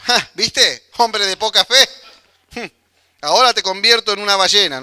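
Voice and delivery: teasing, gloating tone with a scornful laugh; a Jesus the preacher can't imagine, gloating over Pedro; mocking gloat. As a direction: rub his failure in his face, half in jest. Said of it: "Yo no me lo imagino a Jesús".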